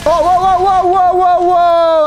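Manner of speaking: high, loud startled whoas. Real, not acted. Streamer caught off guard by enemies, high startled whoas. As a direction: yelp it out as enemies jump you. Startled while reading chat mid-fight.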